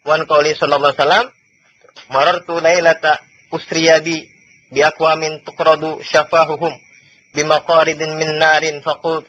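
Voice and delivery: slow, measured chanting of Arabic text; Arabic recitation. Acted. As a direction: intone the hadith slowly and evenly.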